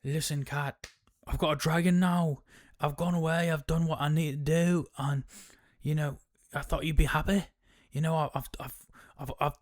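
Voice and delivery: lightly voiced eager husband; proud Hugh. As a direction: puff up like a husband expecting praise. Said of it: "he's like".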